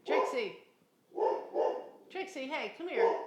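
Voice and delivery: loud, high call to a dog. Real, not acted. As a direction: shout across the yard to bring the dog back. Calling dogs on the beach.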